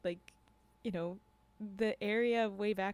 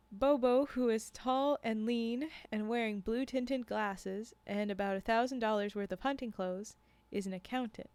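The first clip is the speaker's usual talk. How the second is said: measured read-aloud with lightly voiced dialogue; story narration; 2 semitones higher than usual. A narrator's reading. Narrator reading a tale of guides and hunters to a stream, storytelling. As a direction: read it as a first-person storyteller.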